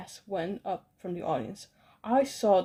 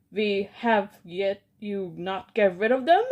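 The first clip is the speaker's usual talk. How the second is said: loud furious demand; angry scream; 6 dB louder than usual. Acted. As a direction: scream it in disbelief at them. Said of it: "she screamed".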